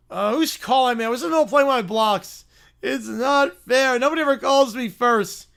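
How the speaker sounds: lightly voiced petulant little bear; a touch of whining, stretched out; whiny Little Brown Bear. Bear interrupted while playing blocks, mildly whiny.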